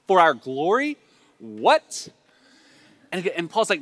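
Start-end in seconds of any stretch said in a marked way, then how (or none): 0.1-1.0 louder, rising awed question; impressed Corinthians. Acted. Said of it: "they would be eating that language up". 1.4-2.1 sharply rising, astonished question; amazed Corinthians. Acted. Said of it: "they would be eating that language up".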